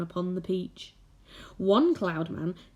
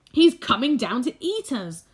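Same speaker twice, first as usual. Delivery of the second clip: higher, louder frightened wail; wailing grasshopper; 5 semitones higher, 6 dB louder than usual. A narrator's reading. Old grasshopper warning the others, loud fearful wail. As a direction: wail it in alarm. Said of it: "wailed the old green grasshopper".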